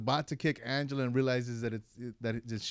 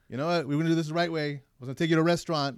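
retold griping, pushed a little; mock complaining; 3 semitones higher, 7 dB louder, much faster than usual. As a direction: imitate an aggrieved complaint. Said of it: "then he starts complaining".

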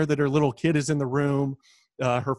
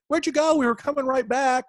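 higher-pitched voice for her text; pitched-up quote of a date's text; retold query; 9 semitones higher than usual. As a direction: lightly mimic her puzzled message.

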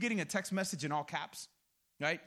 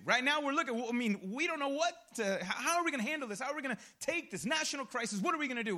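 higher, hurried flustered questions; panicking crowd; 3 semitones higher, faster than usual. Acted. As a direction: stammer and rush through mock panic. Acting out the panicking nation.

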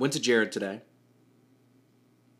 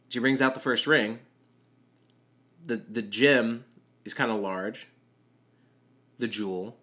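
ordinary talk, nothing marked

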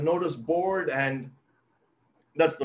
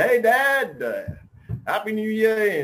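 higher, brighter greeting to dad; young son calling home; cheerful son on phone; 4 semitones higher, 4 dB louder than usual. Retold or imitated. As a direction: son phoning his father at New Year, cheerful.

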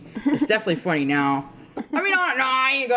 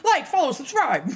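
higher, giggling through the plug; laughing; 10 semitones higher than usual. Real, not acted. Plugging their own podcast while cracking up, laughing. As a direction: laugh while pushing the subscribe line.

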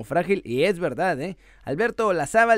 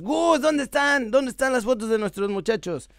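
teasing fan voice; 5 semitones higher than usual. Pretend. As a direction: nag Gus like a teasing fan. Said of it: "vayan a trolear a mi muchacho Gus". (voz de fan burlón)

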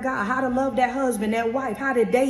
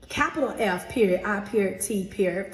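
dictating. Shown as a demonstration. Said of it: "So Get Fit".

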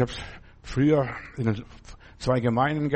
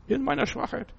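echoed softly; 11 semitones higher, 4 dB quieter than usual. Acted. Preacher echoes phrase, soft high.

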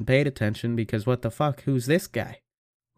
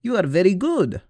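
high, loud mock boss voice; imitating the hiring lady; 5 semitones higher, 3 dB louder than usual. Hiring lady offering the mic, in a high, loud mock voice. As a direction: put on a goofy high voice for her. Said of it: "she will be like".

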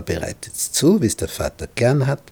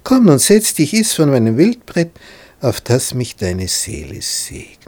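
disguised voice; 4 semitones higher, 5 dB louder than usual. Retold or imitated. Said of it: "seine Stimme zu verstellen".

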